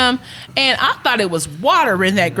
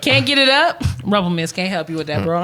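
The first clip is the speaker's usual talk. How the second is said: ad read; 2 semitones lower than usual. Acted. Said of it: "commercial on Rumplemans".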